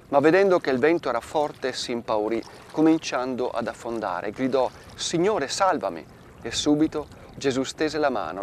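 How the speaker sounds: measured liturgical reading of scripture; Gospel reading. Acted. Priest reading Matthew to listeners, solemn. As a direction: read the Gospel aloud to the faithful. Reads Gospel passage aloud.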